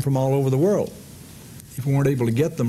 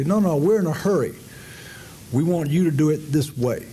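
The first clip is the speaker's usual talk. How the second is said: higher, pushy mock demand; mock hurried insistence; 4 semitones higher than usual. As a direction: play the impatient Americans in a rush. Mock Americans insisting, in hurry.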